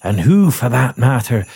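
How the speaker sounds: put-on a touch of Scottish accent; a Scottish burr slipping in. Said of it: "oh, no, that is Rudolph".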